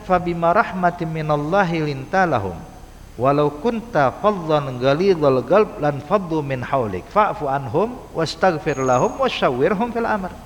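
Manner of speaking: slow, chanted Quranic recitation; slow reverent recital of the verse. Acted. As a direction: draw the verse out in measured recitation.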